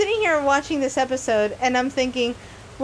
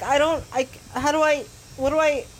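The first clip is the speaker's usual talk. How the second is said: mildly flustered false starts; stumbling, mock-nervous retreat; faster than usual. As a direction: lightly imitate someone too awkward to socialize. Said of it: "The most nervous dudes in the world".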